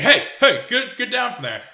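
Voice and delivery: high, loud "hey" across the street; imitated shouted warning. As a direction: call out urgently as the bouncer. Bouncer calling to a climber.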